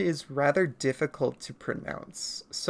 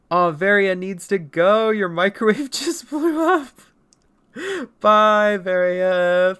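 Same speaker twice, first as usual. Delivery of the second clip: louder goodbye call; cheery call; 5 semitones higher, 9 dB louder, slower than usual. Real, not acted. Streamer saying bye to Varia, loud playful call. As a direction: call out bye to a leaving viewer.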